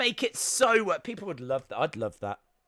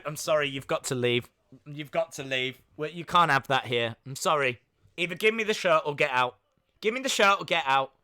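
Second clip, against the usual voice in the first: Linda voiced; 4 semitones lower than usual. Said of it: "Linda could come over and go".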